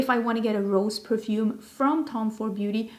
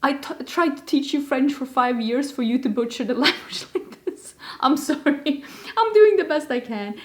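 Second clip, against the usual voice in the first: mock French teacher; 2 semitones higher, 3 dB louder than usual. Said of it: "My French teacher would probably look at this and be like".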